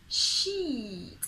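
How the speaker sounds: SHEET with a stretched, falling EE; long smiling EE. Shown as a demonstration. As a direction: smile through the long EE in SHEET. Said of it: "the smile always saves you".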